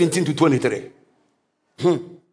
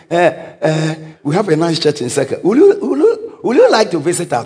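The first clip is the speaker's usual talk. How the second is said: timid invitation; 3 semitones lower than usual. Retold or imitated. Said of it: "don't preach to people and say".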